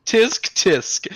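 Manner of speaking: high, loud mock tut; exaggerated smug tisking; smug tutting. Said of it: "He's so smug".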